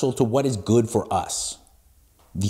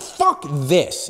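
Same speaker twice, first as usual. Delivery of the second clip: mildly exasperated outburst, retold; a touch of mock exasperation; retold frustration. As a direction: imitate being fed up, with moderate force. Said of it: "I would get so frustrated".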